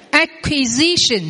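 slow Acquisition, syllable by syllable; slow model word. Shown as a demonstration. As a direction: drill Acquisition slowly. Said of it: "Quý vị đọc vào phần từ vựng".

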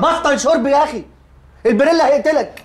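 high, irritated scolding; annoyed scolding. Acted. Man scolding his drunk friend, high and irritated. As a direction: tell the drunk friend off sharply.

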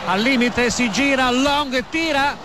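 building up as the attack develops; rising commentary excitement. Real, not acted. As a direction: voice climbing with the chance.

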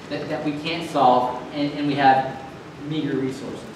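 low, soft, sobering reflection; hushed, sincere. Real, not acted. Preacher admitting our meager resources to congregation, hushed and sincere. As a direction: drop low and quiet, confessing helplessness. Solemn admission of helplessness.

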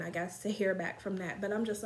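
speaking around a mouthpiece; hookah mouthpiece at lips. Real, not acted. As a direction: lips pressed on pipe. Seen 2: Hookah mouthpiece held at lips 0.1–1.7, lowered by 2.0.

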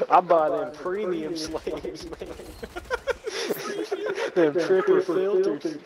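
mock plantation owner.

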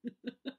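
small real chuckle; soft laugh. Real, not acted. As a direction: laugh softly to yourself. Amused by co-host's joke.

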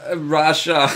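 light mock Russian accent; bad Russian accent. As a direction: attempt a touch of Russian accent. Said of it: "really bad Russian accent".

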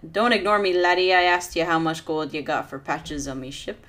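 a touch of a gruff demand; angry captain. Acted. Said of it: "looks angry as he asks".

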